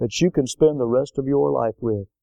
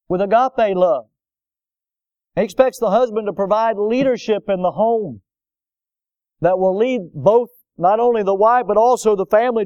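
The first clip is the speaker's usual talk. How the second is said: higher and louder, pressing the point; building preaching; 7 semitones higher, 3 dB louder than usual. Real, not acted. Pastor exhorting husbands, in raised, higher preaching. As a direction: drive each phrase up toward the climax.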